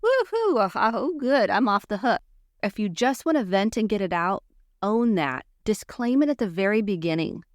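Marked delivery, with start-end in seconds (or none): 0.0-2.2 high whoop of relief; whoop, then settle into relieved release; imitating relieved listener. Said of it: "The other person's like".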